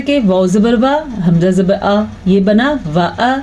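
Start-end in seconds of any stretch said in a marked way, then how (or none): 2.9-3.4 व अ as two brief syllables; short vowels. Shown as a demonstration. Teacher spelling out vav zabar and hamza zabar, व अ short. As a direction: keep both vowels of व अ unstretched. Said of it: "लंबा करना छोड़ दें".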